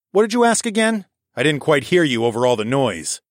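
high-pitched mock-innocent question, then settling; mocking taunt. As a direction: feign not hearing, to taunt. Taunts the enemy after attack.

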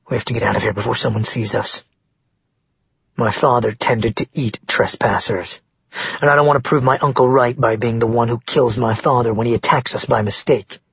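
a young man whispering a warning, lightly voiced; Ren, hushed and urgent.

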